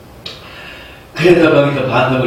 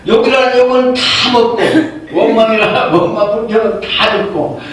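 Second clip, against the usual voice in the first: exasperated Moses; 4 semitones higher than usual. Retold or imitated. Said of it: "모세가 화가 나는 거예요".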